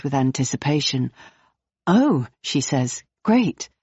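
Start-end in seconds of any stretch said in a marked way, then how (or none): 1.9-3.7 excited. Acted. Jane hears they know Jasper.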